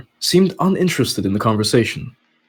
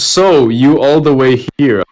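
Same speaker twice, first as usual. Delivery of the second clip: mocking the skipped line; 3 dB louder than usual. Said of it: "All I heard was".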